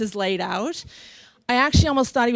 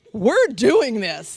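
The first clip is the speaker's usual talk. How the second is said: slow, emphatic resolve; inner self-talk; much slower than usual. Retold or imitated. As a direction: spell it out slowly to yourself. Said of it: "Me and my soul".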